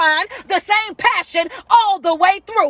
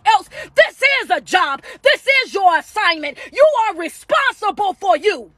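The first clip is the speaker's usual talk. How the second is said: fiery preaching; 3 semitones higher than usual. Acted. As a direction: preach it to the crowd. Preaching at full force.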